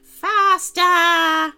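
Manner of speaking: high, loud goblin roar. Acted. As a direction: roar at the slaves to speed up. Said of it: "roared the goblin".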